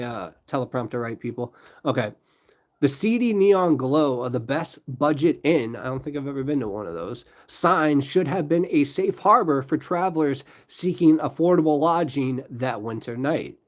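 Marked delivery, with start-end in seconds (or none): 2.8-5.8 slow, deliberate true-crime read; measured, dramatic storytelling; story narration. A narrator's reading. Restarts reading the story. 7.4-13.6 deliberate true-crime read; measured, dramatic storytelling; story narration. A narrator's reading. Continues reading the story.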